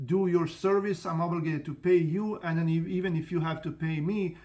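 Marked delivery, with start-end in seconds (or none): none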